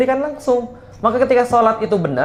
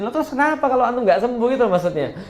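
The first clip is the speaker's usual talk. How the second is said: amused retort; 5 semitones higher, faster than usual. Real, not acted. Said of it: "laughing retort".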